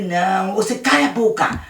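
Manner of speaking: lightly voiced cruel older boy; bully threat. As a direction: Luiz threatening to drown the cat. Luiz threatens the cat.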